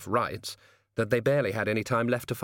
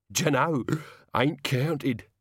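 put-on cheerful, higher-pitched old servant; happy; 5 semitones higher, much slower than usual. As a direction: shrug it off happily. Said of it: "said Albert happily".

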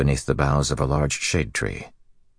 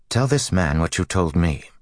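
commanding; 4 semitones higher than usual. Acted. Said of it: "Swan commanded".

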